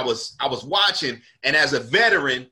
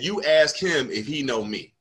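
cool challenge. Retold or imitated. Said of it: "Like that".

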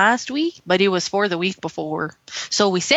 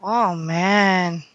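held mock Mexican accent.

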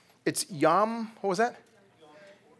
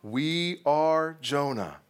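congregation response; much slower than usual. Acted. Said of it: "the congregation will respond".

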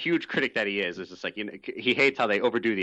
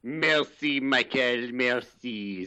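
mock French thank-you; much slower than usual. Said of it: "this outrageous accent".

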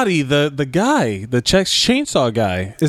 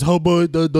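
dopey Southern yokel imitation; mock Southern accent; 3 semitones higher than usual. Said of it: "as a Southern accent".

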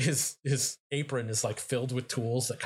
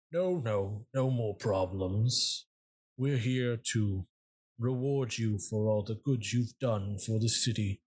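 calm, deliberate creature greeting. Acted. GM voices the Zizix addressing party.

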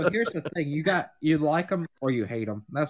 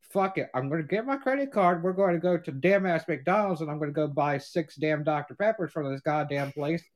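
ranting to dad; 5 semitones higher, 3 dB louder than usual. Retold or imitated. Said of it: "I said".

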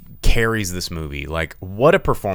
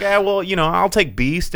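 mock actor voice; 10 semitones higher, 4 dB louder than usual. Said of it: "He's just like".

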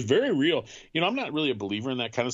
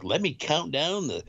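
Casey Kasem voice; slower than usual. Retold or imitated. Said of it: "It'll be like Casey Kasem".

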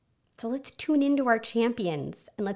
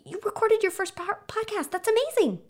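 high-pitched gushing praise, rising to a whoop; champion voice; 13 semitones higher than usual. Acted. Inner champion celebrating a recorded podcast, high gleeful cheering. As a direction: gush with delight, then whoop. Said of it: "I wanna listen to that champion voice".

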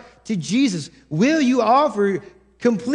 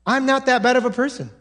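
quick, defensive self-assurance; self-justifying; 3 semitones higher, faster than usual. Retold or imitated. Preacher voicing a self-satisfied churchgoer, defensive. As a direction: brush off the guilt quickly. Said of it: "simply thinking to yourself".

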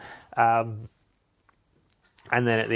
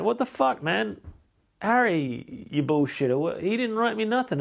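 high-pitched, hammed-up indignation; comic incredulous complaint; mock outrage; 9 semitones higher than usual. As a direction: whine the accusation high, without shouting. Acted outrage at finding no letters.

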